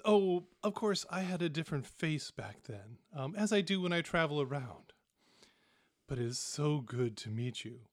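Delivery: a lightly voiced smooth ambassador lulling his son; mild sing-song lilt from a long-lost father. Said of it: "His voice has this, like, sing-song quality".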